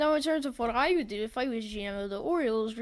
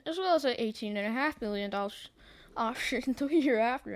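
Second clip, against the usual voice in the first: voice crack. Real, not acted. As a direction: voice breaking with a laugh. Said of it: "I keep voice cracking again".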